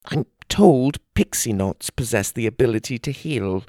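worried husband near tears; trembling fairy. Acted. Gobley begs for his wife.

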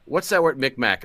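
high, loud mock-puzzled game show guess; puzzled contestant. Pretend game show player asking a co-host for the word, mock puzzled. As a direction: ask it like a stumped contestant.

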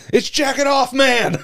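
loud, high, drawn-out mock announcement; retold yell. Someone in the cafeteria spotting him jacketless, high mock yell. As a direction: yell it out like a heckler across a room. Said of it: "someone in the cafeteria just yells".

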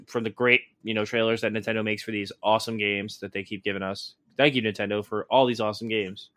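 low-key deadpan sarcasm; quietly mocking gratitude; sarcastic. Real, not acted. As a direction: thank them with dry, insincere praise. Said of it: "You hear the sarcasm in my voice".

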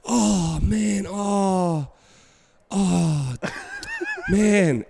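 high groaning oh man, laughing in despair; a player moaning at his blunder, high and laughing; groaning in dismay. Retold or imitated. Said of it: "And Mason's like".

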